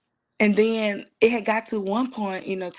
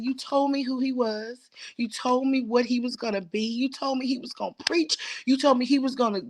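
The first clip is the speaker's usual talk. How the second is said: higher, insistent repeated plea; pleading with God; 5 semitones higher than usual. Retold or imitated. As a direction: press God with each repeated reminder. Retelling her plea to God.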